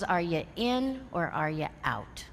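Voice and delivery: lightly voiced stern mentor demanding a choice; stern ultimatum. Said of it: "he said it in that voice".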